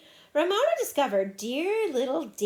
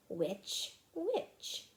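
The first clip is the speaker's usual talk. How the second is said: soft musing; 3 semitones lower, 8 dB quieter than usual. A narrator's reading. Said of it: "thought Ramona, liking the sounds".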